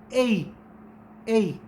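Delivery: ए glides quickly from eh into ee; teacher modelling the ए diphthong; diphthong demo. Shown as a demonstration. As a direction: blend ए into a fast eh-ee glide. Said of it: "इसको आप कैसे pronounce करते हैं".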